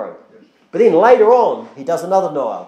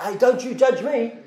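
mildly indignant, higher-pitched retort; mock angry; 4 semitones higher than usual. Wrongdoer answering whoever points it out, mock angry. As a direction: act out a touchy comeback without raising volume. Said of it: "they can tend to get really angry".

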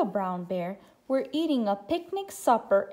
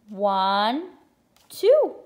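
excited counting; 5 dB louder than usual. Shown as a demonstration. Counting aloud with children.

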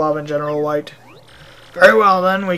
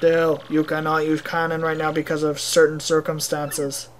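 evasive Russian mayor. Acted. Mayor refuses use of cannon, even Russian accent. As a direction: state "circumstances" as a closed matter.

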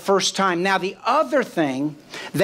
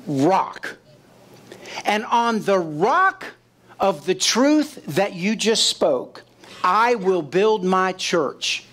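solemn Jesus voice; slower than usual. Acted. Jesus renames Peter, solemn promise.

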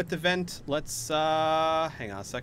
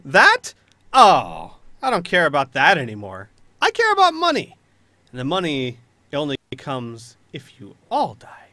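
mocking villain Neelix; 7 dB louder than usual. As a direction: sneer at their plea, punching key phrases.

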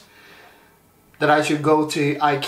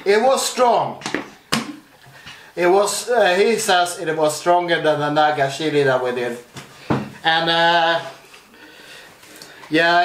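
numb tongue. Real, not acted. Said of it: "My, my tongue is numb, so I might, might sound".

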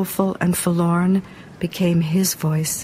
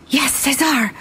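Angelique answering; 7 semitones higher than usual. Acted.

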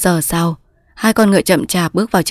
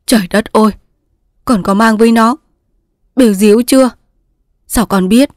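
higher, louder shocked exclamation; 4 semitones higher, 5 dB louder than usual. Acted. Mother hearing daughter's pregnancy, shocked. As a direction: reel at the news.

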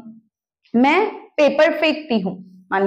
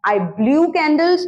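slow model sentence; 3 semitones higher, much slower than usual. Shown as a demonstration. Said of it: "teacher modelling sentence".

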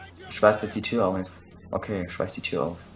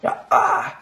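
high shriek of shock; a short startled scream; sudden shriek; 7 dB louder than usual. Real, not acted. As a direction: yelp as you get hit. Hit in game, shrieks.

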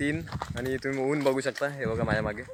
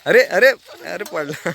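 startled oh no; 4 semitones higher, 6 dB louder, slower than usual. Real, not acted. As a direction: react with real surprise, slow and louder. Child falls off bicycle. (अरे अरे, घाबरून ओरडणे)

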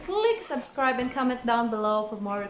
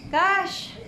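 laughing while talking; 11 semitones higher, slower than usual. Real, not acted. Overwhelmed reaction, laughing through words.

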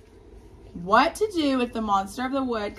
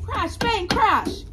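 much higher, louder, punchy sound words; thunder crash; 12 semitones higher, 8 dB louder, much slower than usual. Acted. Teacher making the thunder loud for the class. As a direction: boom it out like thunder.

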